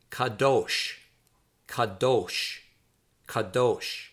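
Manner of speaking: "kadosh" as kuh-DOHSH, stressed on the end; pronunciation demo. Shown as a demonstration. Teacher models the word for holy, careful pronunciation of "kadosh" as kuh-DOHSH. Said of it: "that is pronounced".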